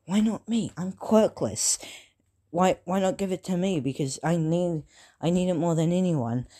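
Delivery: lightly acted "why not me" plea; mild retold plea. Quirkless boy begs to inherit the quirk, mildly pleading.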